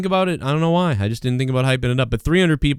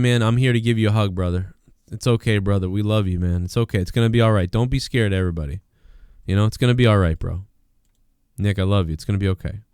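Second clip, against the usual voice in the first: mock comforting; 4 semitones lower than usual. Comforting Nick Cannon mockingly.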